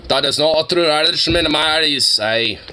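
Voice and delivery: lightly put-on Irish accent; a playful Irish brogue judging him; mock Irish accent. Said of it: "Paul, the Irishman".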